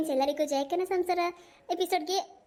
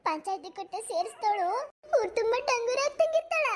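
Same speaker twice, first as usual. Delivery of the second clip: tearful, high-pitched wailing complaint; hammed-up weepy lament; acted crying; 4 semitones higher than usual. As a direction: wail to your son like a wronged mother. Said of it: "ಅದ್ಯಾಕಮ್ಮ ಹಿಂಗ್ ಅಳ್ತಾ ಕೂತಿದ್ದಿ".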